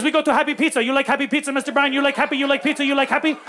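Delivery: lightly mimicked driver, singsong questions; Mister Mamba. Driver talks passenger into Happy Pizza, eager driver voice. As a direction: keep pitching eagerly as the driver.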